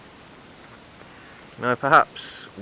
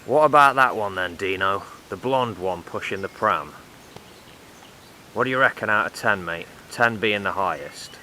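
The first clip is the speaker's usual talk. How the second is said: leering builder. Retold or imitated. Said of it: "talking like this".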